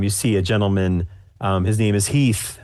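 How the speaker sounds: ordinary talk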